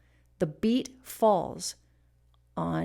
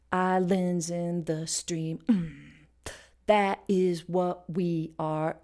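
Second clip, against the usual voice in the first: slow, "lands", "the", "is", "we" leaned on; offbeat emphasis; 2 semitones lower, slower than usual. Shown as a demonstration. Teacher showing the syncopation, slow displaced stresses. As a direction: space it out, hitting "lands" and "the". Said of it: "we've got these strong emphases".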